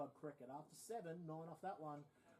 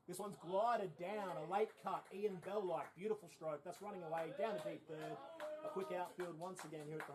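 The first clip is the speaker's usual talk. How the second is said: golf commentator; 3 semitones higher, 7 dB louder than usual. Real, not acted. Big shot called on air.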